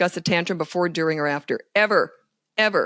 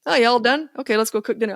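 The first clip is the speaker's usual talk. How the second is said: higher, cheerful brush-off; breezy parent; 4 semitones higher, faster than usual. Retold or imitated. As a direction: treat it like nothing. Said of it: "I treat it like it was nothing".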